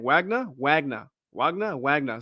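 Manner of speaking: trying out "Wagner", alternately questioning and settling; unsure pronunciation. Real, not acted. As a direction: say "Wagner" over and over, rising then falling. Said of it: "I can't pronounce his name".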